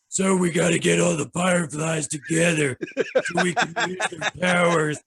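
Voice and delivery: put-on flat, low reading of a girl character; deep monotone girl voice. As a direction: read the princess in a bored deadpan. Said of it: "girl's voices in a deep monotone voice".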